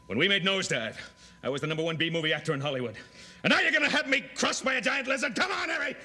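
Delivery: building to high loud protest; rising fast indignant complaint; outraged protest. Acted. Actor protests in sketch.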